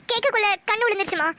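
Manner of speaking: muddled, nervous excuse; flustered blabbering. Acted. Daughter explaining her tears to mother, flustered blabbering. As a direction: blurt out a garbled cover-up. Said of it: "என்னடி உளற?".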